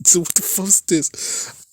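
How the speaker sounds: high, laughing disbelief; incredulous. Real, not acted. Still stunned by the clip, high incredulous question. Reacting to shocking video clip.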